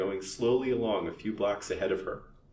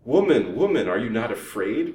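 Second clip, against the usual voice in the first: witch's cry; 8 dB louder than usual. A narrator's reading. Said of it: "cried the old witch".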